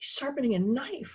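whispering. The bone answers Pearl about a sound from the kitchen; whispered. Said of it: "the bone whispered".

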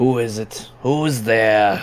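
loud, throaty, guttural giant voice calling out. Narrator voicing an unseen voice calling up from the south, deep guttural voice. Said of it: "you hear this deep, guttural voice saying".

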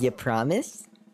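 put-on sultry voice. Showing how Wilson would deliver the joke, imitating Wilson, mock-sultry. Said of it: "he'd say it more like sultry".

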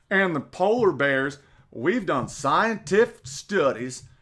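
put-on, slow, generic Southern drawl. Imitating a man from a comedy talking about global warming, in a generic put-on Southern accent. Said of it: "I'm just doing a generic Southern accent".

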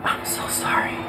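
soft, breathy, hushed whisper. Retelling what someone whispers to you: imitating a whisper. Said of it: "Somebody whispers to you".

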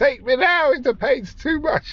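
very high, exaggerated put-on woman's voice. Playing along with a co-speaker's bit, doing an impression of a woman. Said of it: "That was my best woman impression".

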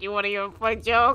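goofy put-on clown voice. Giving a voice to a character in the game they're playing, Moe the Clown voice. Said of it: "make him sound like Mo the Clown from Ace Attorney".

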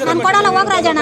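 ordinary talk, nothing marked

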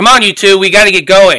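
very loud, high-pitched hollering yell. Voicing a character who glances back and calls two others along: yelling. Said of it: "and he yells".

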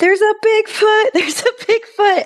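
put-on screaming, very high pitched. Retelling spotting Bigfoot from the car to your family, retelling a scream. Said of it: "when I'm screaming".

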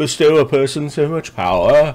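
voice swollen by huge giant size. Game master voices a channeler grown to eight times his mass, changed voice. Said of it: "whose voice has changed because he's eight times as the mass".

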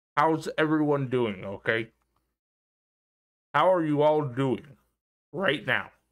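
speaking while brushing teeth. Speaker greeting everyone listening while brushing their teeth: talking while brushing teeth. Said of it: "I'm brushing my teeth".

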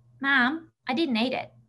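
put-on broad, thick, full Australian accent. A mother retells what her son said to her, in his broad Aussie accent. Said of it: "in his broad Aussie accent".

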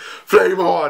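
imitated superhero battle-cry scream, held back. Comparing the scene to Johnny Storm in Fantastic Four: Johnny Storm screaming.

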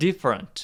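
different with the dif syllable stressed. Explaining an English sentence, stress on first syllable dif. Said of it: "앞에 강세 주면서".

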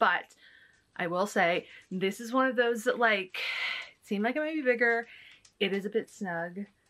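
breathless, winded talk after exertion. Trying on clothes to show viewers, out of breath. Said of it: "I'm literally out of breath from doing that".

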